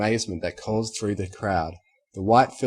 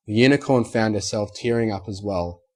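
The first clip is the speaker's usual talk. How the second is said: usual speaking voice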